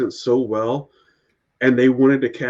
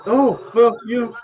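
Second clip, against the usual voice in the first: producer in a higher put-on voice, lightly played; retold producer; 9 semitones higher, slower than usual. Friend retelling the producer letting the actor stay, higher put-on voice. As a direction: tell him he can stay on the show, half-laughing. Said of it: "He's like".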